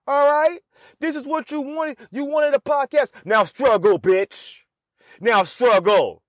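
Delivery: high scolding self-talk; self-hype. Retold or imitated. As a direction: talk yourself up hard. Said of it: "I'm trying to hype myself up".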